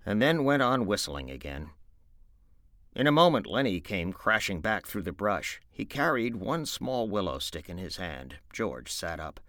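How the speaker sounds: story narration. A narrator's reading. Narrator opening Of Mice and Men, read aloud with animated delivery. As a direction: read the opening like a performer to listeners.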